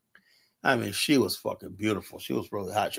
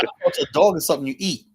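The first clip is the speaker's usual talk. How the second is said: fast, higher put-on voice; imitating the woman; 5 semitones higher, faster than usual. Woman tells narrator dogs are for eating, fast high voice. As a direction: rattle it off in her voice.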